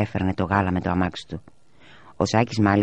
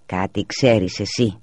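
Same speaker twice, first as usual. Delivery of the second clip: mock shout; slower than usual. A narrator's reading. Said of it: "μου φώναξε η μαμά".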